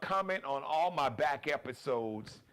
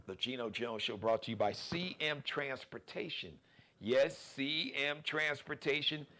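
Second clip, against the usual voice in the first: sponsor read. Acted. Host reads transportation sponsor to viewers, ad read. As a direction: sell it like a radio spot, punching the key words.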